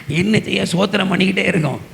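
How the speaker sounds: ordinary delivery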